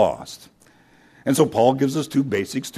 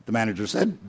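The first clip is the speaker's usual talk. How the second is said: usual speaking voice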